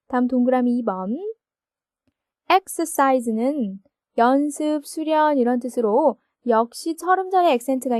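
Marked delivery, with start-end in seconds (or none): none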